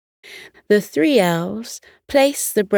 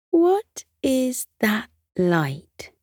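slow, higher-pitched wondering question; curious; 6 semitones higher, slower than usual. A narrator's reading. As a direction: ask it slowly, full of curiosity. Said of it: "Jingle asked curiously".

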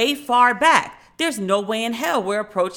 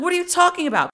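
higher, puzzled what are you talking about; incredulous; 7 semitones higher, faster than usual. Retold or imitated. Son baffled by his mother's report, incredulous. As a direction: ask in disbelief.

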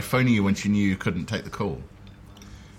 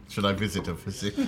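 mock posh voice; 4 dB quieter than usual. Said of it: "when you're doing it like that".

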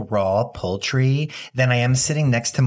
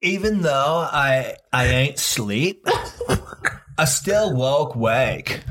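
put-on singer's accent; much slower than usual. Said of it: "that's not my John Lennon".

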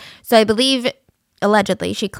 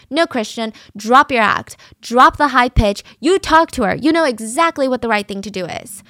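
mock screaming; 3 semitones higher, 4 dB louder than usual. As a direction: yell it at him like she's losing it. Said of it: "Kourtney lost her mind".

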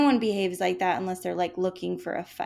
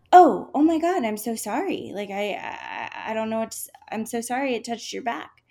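flustered apology; 3 semitones higher, 4 dB louder than usual. Retold or imitated. Flustered apology after rude remark.

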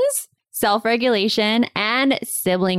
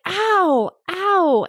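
mock ow; 10 semitones higher than usual. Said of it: "she's like".

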